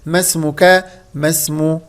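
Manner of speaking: ما اسمك run together as me-smuka; correct linked form. Shown as a demonstration. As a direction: model the right ما اسمك. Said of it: "فالصحيح نقول". (ما اسمك بوصل صحيح)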